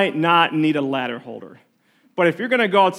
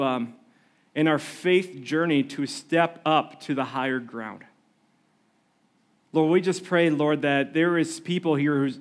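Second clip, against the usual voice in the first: prayer; 3 semitones lower than usual. Real, not acted. Leads the congregation in prayer.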